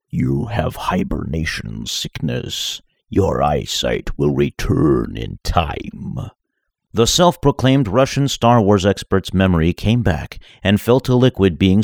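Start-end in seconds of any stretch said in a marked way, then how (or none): 0.1-6.3 low, slowed robotic masked voice; electronically distorted voice. Acted. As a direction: speak through a voice distorter. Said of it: "said an electronically distorted voice".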